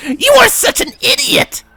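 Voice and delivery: high, loud panicked shout. A narrator's reading. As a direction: yell it and bolt. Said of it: "Cirrus shouted".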